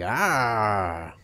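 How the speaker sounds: thin, feeble little roar; a limp, breathy dino call; weak dinosaur sound. Pretend. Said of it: "the other one will sound like".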